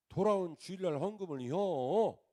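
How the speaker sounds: a mock-gruff pastor's rebuke in dialect; rustic scolding. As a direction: snap at him in country dialect. Pastor scolding late-night caller.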